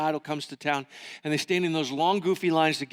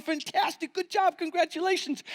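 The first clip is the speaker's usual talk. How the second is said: excited congratulations; 10 semitones higher than usual. Retold or imitated. Buddy cheering his friend.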